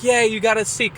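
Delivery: high, bright cheer; mock cheering crowd. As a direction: cheer them on like the neighbors. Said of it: "They're like".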